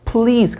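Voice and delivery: slow PLEASE with a full doubled L; PLEASE with a clear L; L sound. Shown as a demonstration. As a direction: say PLEASE holding the L after P. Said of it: "받침 있는 리을이고".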